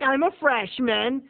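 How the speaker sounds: imitated husky Italian girl, drawn out. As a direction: mimic a husky-voiced girl, slowly. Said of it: "she sure has a husky voice".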